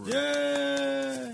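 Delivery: high squeal of joy; a quick excited yay, way up high; delighted little cheer. Real, not acted. Cheering the console.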